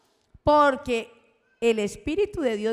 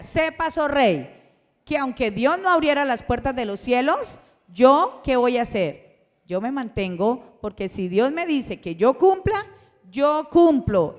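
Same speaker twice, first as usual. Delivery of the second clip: defiant vow; 5 dB louder than usual. Acted. Preacher voicing Daniel to the king, a rising defiant vow. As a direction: swear it to the king, louder and louder.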